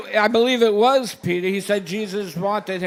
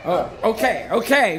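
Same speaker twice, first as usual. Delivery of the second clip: conceding through a real chuckle; laughing okay. Real, not acted. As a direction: laugh and give in. Host laughs, gives way.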